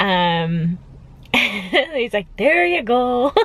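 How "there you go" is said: put-on Irish accent. Retelling what the big man taking blood said, in an Irish accent. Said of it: "with like an Irish accent".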